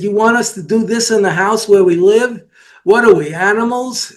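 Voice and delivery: mild mock Jewish-accented protest; indignant question in a lightly imitated Jewish accent. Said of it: "the guy said it with a Jewish accent".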